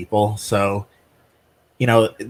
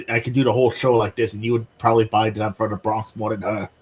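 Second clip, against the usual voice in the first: Bronx accent; faster than usual. Shown as a demonstration. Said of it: "I could probably do a better Bronx accent".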